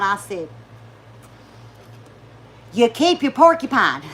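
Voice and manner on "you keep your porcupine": louder, sassy comeback; indignant retort. Retold or imitated. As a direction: snap it back at her, louder. Retold snapping at waitress.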